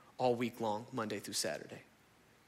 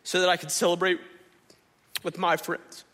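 put-on older son's complaint; 4 semitones higher, 6 dB louder than usual. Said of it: "He says".

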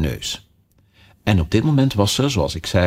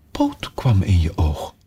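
whisper; slower than usual. Acted. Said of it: "whispered, slow".

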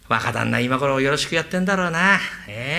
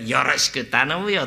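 slower, drawn-out mimic of the young master; mocking echo; 3 semitones lower than usual. Mimicking the master's parting line, drawn out. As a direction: parrot his line back slowly. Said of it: "ったってね".

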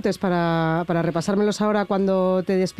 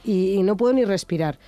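stuffy duck voice from allergies; blocked nose, congested duck voice. Real, not acted. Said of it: "por eso tengo esta voz de pato hoy".

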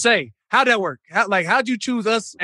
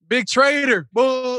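playful jeer, pitched up; mock heckling; 4 semitones higher, much slower than usual. Host playing London crowd jeering the traitor, mock heckling. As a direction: heckle like a booing crowd, lightly hammed-up.

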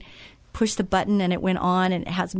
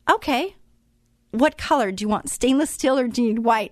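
higher, bright, matter-of-fact helper voice; cheerful offer; 4 semitones higher than usual. Retold or imitated. Wendy offering free appliances, higher cheery voice. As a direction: offer it breezily like it's nothing.

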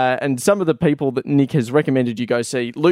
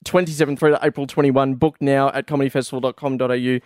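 ad read. Acted. Reads the festival ad again.

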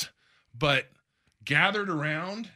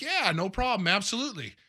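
imitating an easygoing yes, pitched up; lightly acted, higher-pitched obliging reply; breezy agreement; 5 semitones higher than usual. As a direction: agree readily, as if retelling it. Retells Griffey readily agreeing to help.

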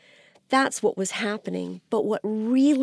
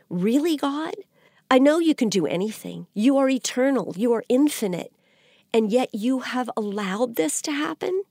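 higher, incredulous appeal, acted out; Habakkuk challenging God; 4 semitones higher than usual. Prophet questioning why eternal God allowed this, mock incredulous challenge. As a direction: imitate a baffled believer confronting God, with emphatic pitch rises. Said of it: "Habakkuk is saying".

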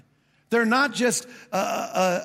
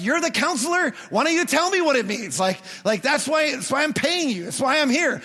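higher and louder, exasperated complaint; frustrated; 5 semitones higher, 3 dB louder than usual. Retold or imitated. The preacher argues with his counselor, frustrated and higher. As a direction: demand an answer, fed up.

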